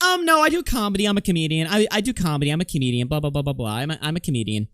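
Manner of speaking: mock defensive protest. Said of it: "And she's like".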